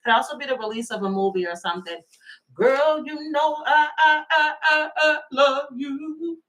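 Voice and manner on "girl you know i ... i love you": mock stuttering lover. Mimicking stuttering love plea again.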